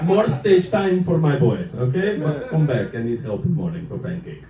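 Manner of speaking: imitated dad. Dad backing son's open mic, mock fatherly encouragement. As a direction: play an immigrant dad cheering, then needing help. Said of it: "And he goes".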